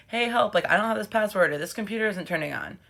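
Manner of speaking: lightly hammed-up helpless request; mock plea for help. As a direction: act out a quick plea to tech support. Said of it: "send out an email and be like".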